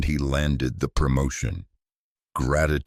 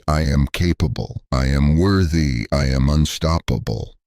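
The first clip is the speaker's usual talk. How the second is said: each phrase set down firmly, a bit louder; firm self-affirmation; 3 dB louder than usual. Shown as a demonstration. Coach modelling mirror affirmations for viewers, said with firm conviction. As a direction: say it like you fully believe it. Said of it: "Say it three times with conviction".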